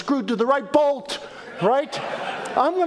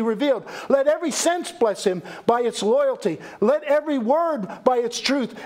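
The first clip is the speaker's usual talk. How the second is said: formal quotation reading. Acted. Reads quotation aloud.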